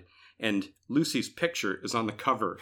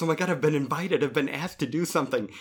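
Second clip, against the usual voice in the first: a touch of glee, quick; lightly voiced thrilled boy; quick, mildly delighted mock glee; gleeful Charlie Brown; 4 semitones higher, faster than usual. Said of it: "the glee on his face".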